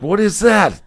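retold baffled question. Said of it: "And I'm like".

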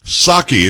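"Psaki" said SAH-kee, no P at all; silent P. Shown as a demonstration. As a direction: correct them: "Psaki" starts on a plain S. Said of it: "You didn't pronounce the P".

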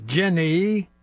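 lightly voiced movie-character impression; a hint of an impression, name called with rising tune; half-hearted impression, close to own voice; Forrest Gump. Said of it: "that's my Forrest Gump impression".

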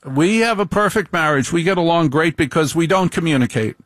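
high, bright mock comic voice; quoting Zara. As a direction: lightly imitate the Indian comic's deadpan line. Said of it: "she says".

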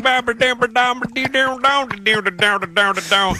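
high, run-together mock Southern gibberish; thick Southern mumble. High school friend on speakerphone, mock Southern gibberish. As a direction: mumble it like the guys back home. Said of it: "He's like".

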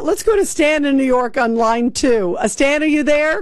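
ordinary talk, nothing marked

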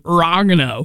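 oregano squashed the way she says it; imitated Canadian pronunciation. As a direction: mimic her odd take on oregano. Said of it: "if it's a Canadian accent".

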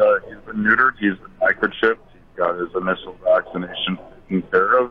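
echoey phone line in a big gym. Real, not acted. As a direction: talk into a big echoing hall. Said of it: "Sounds like you're in a gymnasium".

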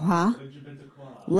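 slow, soft mock of her letter-by-letter; mocking imitation. Host mocking how the mom spelled the letters, slow and soft. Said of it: "how did she say it?".

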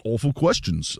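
bad British accent, said softly; awful British accent. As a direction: botch a British accent in a quiet aside. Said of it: "that was an awful British accent".

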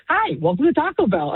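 bright, chirpy drive-thru voice, lightly mocked; a hint of a cheery drive-thru AI; cheery AI greeting. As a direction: play the cheery robot greeter. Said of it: "like, this very cheery".

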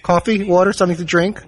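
rote cart offers, each item repeated; repetitive flight attendant. Acted. Flight attendant offering snacks down the narrow row, repetitive routine. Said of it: "repeating the same thing up and down".

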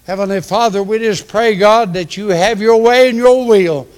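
earnest preacher's prayer; closing prayer. Acted. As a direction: lift the church up to God.

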